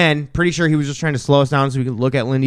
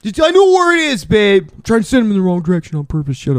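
frantic high; 5 semitones higher, faster than usual. Acted. Fast defensive rant in character.

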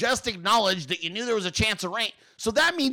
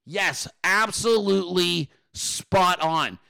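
sarcastic; slower than usual. Real, not acted. Sarcastic praise of pundit.

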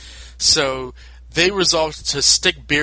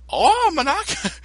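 excited Goku; 14 semitones higher, 4 dB louder, slower than usual. Retold or imitated. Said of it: "I'm not gonna do an accent".

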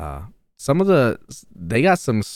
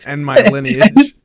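mock solemn; 3 semitones higher, 8 dB louder, slower than usual. Joking addition to quote.

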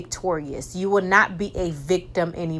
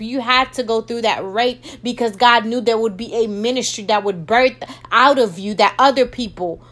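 fervent pulpit preaching, a touch louder; 3 dB louder than usual. Acted. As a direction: preach it with conviction to the listener. Preaching, binding the devil.

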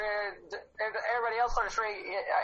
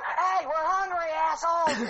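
mock demand; 6 semitones higher, slower than usual. Acts out hungry Shriekers demanding.

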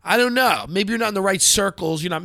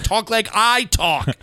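slow commanding; 3 semitones higher, slower than usual. Shown as a demonstration. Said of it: "Stop talking like you talk".

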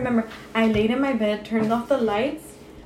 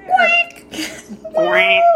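animal chorus. Pretend. Animal noise sign-off.

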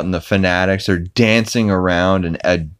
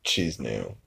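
God impression; 8 semitones lower, 13 dB quieter, slower than usual. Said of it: "he's like".

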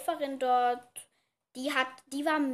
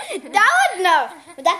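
laughing; 7 semitones higher, 12 dB louder, much slower than usual. Real, not acted. Teasing friend, laughing.

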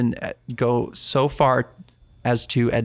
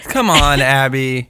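loud protest; 4 dB louder, slower than usual. Real, not acted. Protesting her story.

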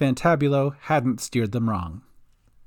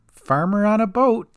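Cat's dry remark; 6 semitones higher than usual. Acted. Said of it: "said Cat".

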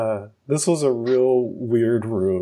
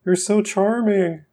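put-on high, gushing boy voice; hammed-up high Mark; 9 semitones higher, slower than usual. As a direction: stammer out the compliment in a squeaky voice. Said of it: "my Mark voice".

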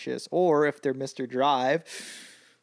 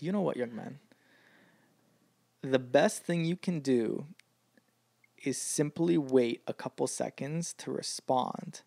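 slow wise advice; 3 dB quieter than usual. Retold or imitated. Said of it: "I'm not even gonna attempt his accent".

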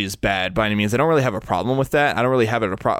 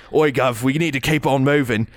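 mock British accent; 3 semitones higher than usual. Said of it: "terrible stereotypical British accent".

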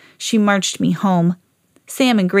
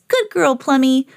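praising a dog; 4 semitones higher than usual. Acted. Owner praising her dog.

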